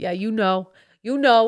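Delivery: put-on fake man voice, dad-like. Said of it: "Dad talk".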